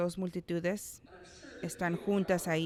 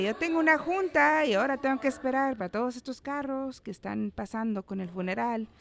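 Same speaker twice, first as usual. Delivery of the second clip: fast, higher, exasperated griping about the cars; impatient driver; 5 semitones higher, faster than usual. Retold or imitated. A driver stuck behind a funeral procession, impatient and higher. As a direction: grumble like you're late for a meeting.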